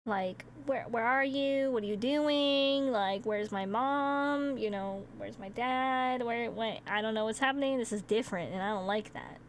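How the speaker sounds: lightly voiced lonely dog missing its people; sad dog. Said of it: "they just get sad".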